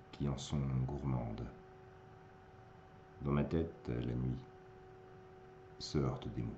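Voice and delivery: measured verse with pauses, fading out; poem recitation. Acted. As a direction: recite phrase by phrase, letting the close sink.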